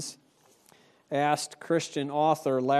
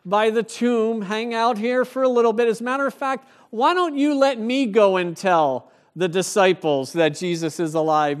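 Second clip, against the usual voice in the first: higher, louder, breezy mock offer; a hammed-up laid-back angel, louder and higher; mock casual angel; 6 semitones higher, 6 dB louder than usual. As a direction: play the angel as lazily easygoing. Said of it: "the angel doesn't say".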